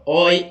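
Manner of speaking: "Oi" drawn out as an open ói; open diphthong. Shown as a demonstration. Teacher repeating the sound for the class, "Oi" slow and open. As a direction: dwell on the open ó in "Oi". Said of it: "Oi aberto".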